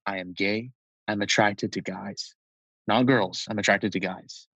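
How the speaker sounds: retold firm, unemotional declaration; bold, matter-of-fact. Brother defining what he means, matter-of-fact. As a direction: state it as simple fact, understated. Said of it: "very boldly and very, like, matter-of-factly".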